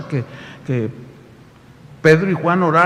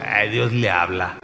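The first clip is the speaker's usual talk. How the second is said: mocking tone; 8 semitones lower, 3 dB quieter, slower than usual. Mocking what people say.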